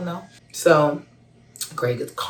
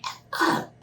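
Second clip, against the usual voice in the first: cussing in shock. Retold or imitated. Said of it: "I'm cussing".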